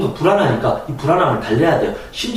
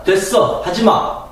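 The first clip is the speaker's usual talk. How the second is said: higher, pushy nagging mom; mother refusing the child's rest; strict mother; 6 semitones higher, slower than usual. Acted. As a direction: scold the child like a demanding mother. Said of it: "엄마가".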